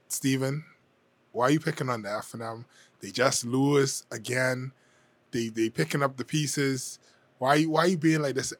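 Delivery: imagined critic. Retold or imitated. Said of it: "somebody out there saying".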